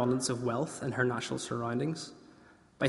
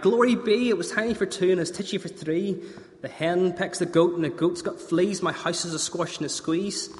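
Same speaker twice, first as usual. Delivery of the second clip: put-on exasperated old lady; 4 semitones higher than usual. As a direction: squeal it like a frazzled granny.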